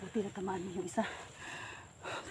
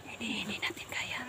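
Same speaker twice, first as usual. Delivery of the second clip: hushed whisper; 5 dB quieter than usual. Real, not acted. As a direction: whisper it so they won't hear. Hiding from a group of enemies.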